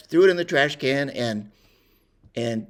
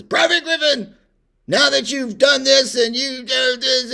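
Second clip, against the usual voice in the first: much higher, much louder mock sergeant bark; drill sergeant yell; 11 semitones higher, 6 dB louder than usual. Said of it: "he says".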